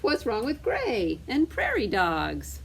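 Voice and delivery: mock-cross, slow complaint; mildly angry. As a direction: retort crossly, lightly acted. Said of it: "getting angry with each other".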